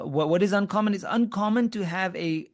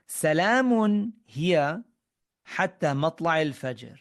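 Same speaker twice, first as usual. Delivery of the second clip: Quran recitation; slower than usual. Shown as a demonstration. Teacher recites the Quranic verse.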